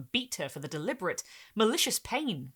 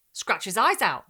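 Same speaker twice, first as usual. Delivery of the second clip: succinct; 3 semitones higher, 9 dB louder than usual. A narrator's reading. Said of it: "the grocer said succinctly".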